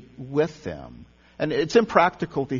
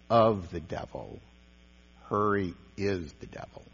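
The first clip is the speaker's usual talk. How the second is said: "of the devil" then "Hurry is the devil" lower and stressed; contrast of and is; 5 semitones lower than usual. Shown as a demonstration. Pastor quoting Jung, stressing the contrast. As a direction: hit "is" against "of". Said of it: "quote contrast, not of but is".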